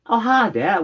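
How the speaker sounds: put-on British hello; British accent. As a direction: imitate an elderly Englishwoman's British accent. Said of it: "with, with an accent".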